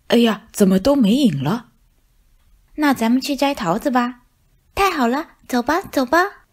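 lightly voiced high little mice, eager; cheerful tiny mouse voices. (小老鼠们兴奋地说，声音尖细)

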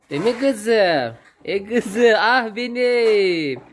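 high, loud sweet-talk to the cow; talking to a pet. Real, not acted. Coos at the calf. (hayvana sevgiyle seslenen yüksek ses)

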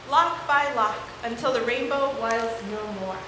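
lively, expressive picture-book read-aloud; story reading for children. Acted. Teacher reading a unicorn book to her class, animated. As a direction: read it to the kids with wide swings in tone.

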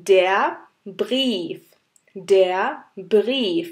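Brief with long ee; German demo word. Shown as a demonstration. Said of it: "একটা example". (Brief উচ্চারণ ব্রীফ)

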